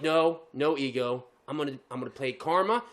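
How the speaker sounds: low, slowed, self-restraining reply; talking himself down. Retold or imitated. Driver answering the ego inside, acted low calm. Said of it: "And I'm like".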